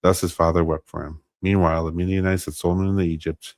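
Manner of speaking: measured Bible narration, lightly animated dialogue; scripture reading aloud. A narrator's reading. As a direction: read the passage out evenly and clearly. Reads Scripture aloud on stream.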